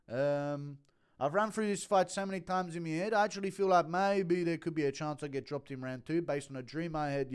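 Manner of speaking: lightly impersonated fighter rambling on; CT Volk. Acted. Fighter won't let the media cut in, lightly impersonated. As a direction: keep the put-on voice, insisting on finishing. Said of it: "telling the media he had a dream".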